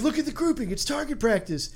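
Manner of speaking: lightly voiced gloating gunman; mock German shooter. A German gunman admiring his own shots, lightly mocking. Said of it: "they're like".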